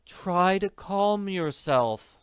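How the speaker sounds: slow pleading; slow gentle plea; begging. A narrator's reading. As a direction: coax her gently, slowly. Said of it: "the manager begged".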